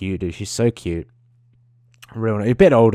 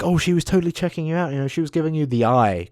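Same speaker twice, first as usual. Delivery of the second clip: higher-pitched mock mum voice; imitated mum; 7 semitones higher than usual. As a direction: imitate a mum teasing her son. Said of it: "my mum would say".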